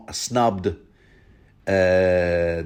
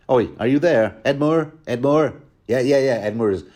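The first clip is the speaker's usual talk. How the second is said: jolly Lothar calling out; 3 semitones higher, 3 dB louder than usual. Retold or imitated. Lothar nudging Edmure.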